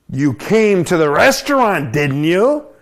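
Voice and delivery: pushy waiter. Acted. Waiter insists on the meal.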